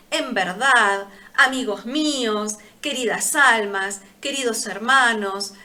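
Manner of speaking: mild demo of pulpit fillers; preacher's filler phrases. Shown as a demonstration. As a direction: toss off stock pulpit fillers. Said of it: "palabras que se usan de muletilla".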